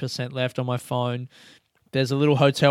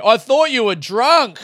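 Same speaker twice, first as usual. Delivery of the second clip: retold yell back; 8 semitones higher, 7 dB louder than usual. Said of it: "the guy yelled back at me".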